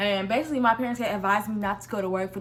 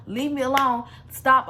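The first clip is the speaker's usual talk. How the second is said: mock yell, stop pushed louder; yelling at him; 2 semitones higher, 4 dB louder, slower than usual. Retelling yelling at the stalker, stop loudest. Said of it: "I'm yelling at him".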